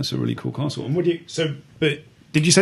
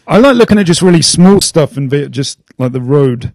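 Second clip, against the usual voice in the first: too loud; 3 semitones higher, 5 dB louder than usual. Real, not acted. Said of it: "you need to use the inside voice".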